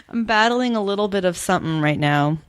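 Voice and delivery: stuffy nasal voice from a cold. Real, not acted. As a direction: talk through a blocked nose. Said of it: "I can tell I sound a little nasally".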